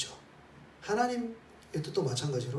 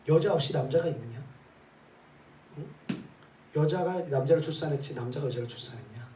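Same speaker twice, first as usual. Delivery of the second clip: ordinary talk, nothing marked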